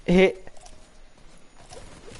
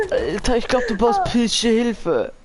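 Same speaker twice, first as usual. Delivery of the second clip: raging gamer; 7 semitones higher, slower than usual. Real, not acted. Continues raging, slower.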